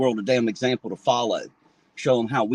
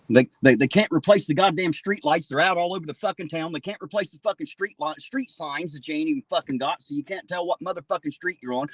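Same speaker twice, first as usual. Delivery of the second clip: higher, heated rant; furious rant; 5 semitones higher than usual. Real, not acted. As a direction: rant it out, voice pitched up in fury. Furious rant about city neglect.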